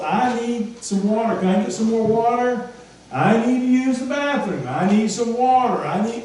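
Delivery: put-on high repeated child's pleas; child calling from bed. Preacher voicing a child calling again and again. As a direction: keep calling down like a restless kid.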